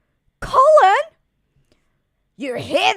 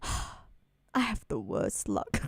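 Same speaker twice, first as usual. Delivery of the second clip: resigned sigh; 7 semitones lower, 12 dB quieter than usual. Acted. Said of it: "Colleen's so".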